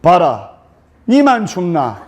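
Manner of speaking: blunt Gyeongsang groom, half laughing; gruff Gyeongsang husband. Retold or imitated. Husband brushing off his cold wife, blunt Gyeongsang. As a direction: snap back bluntly in Gyeongsang dialect. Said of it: "경상도 신랑이".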